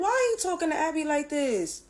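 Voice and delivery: high, loud indignant challenge; defiant protest. Retold or imitated. Daughter confronting her father over Abby, loud and indignant. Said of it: "And then I'm like".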